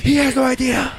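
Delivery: high, laughing singsong; giggling high mock. Teasing friends about a secret hint, laughing high.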